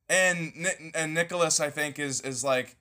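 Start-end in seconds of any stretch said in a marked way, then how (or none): none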